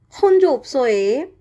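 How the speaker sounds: Jeju dialect. Shown as a demonstration. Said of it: "first example is like".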